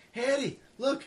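high, loud mock coworker voice; teasing call-out. Coworker approaching Eddie with hands closed, teasing call-out.

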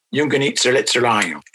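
"Yung ganit sirlet sirlayo" said carefully in Mohawk, stress on sirlet; Mohawk word. Shown as a demonstration. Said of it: "That's a word meaning".

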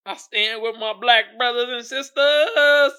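mock Pelosi. Mocking Nancy Pelosi kneeling in kente cloth, slow and solemn. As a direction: ham up a showy solemn vow. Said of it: "she kneeled down with the kente cloth".

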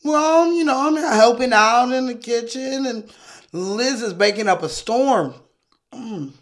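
lightly acted chummy neighbour, starting high; breezy neighbour. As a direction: toss it off with a savouring mm. Acts breezy neighbour helping in kitchen.

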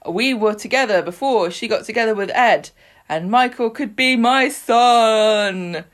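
hammed-up paternity bombshell; dramatic confession. Acted soap confession in recap.

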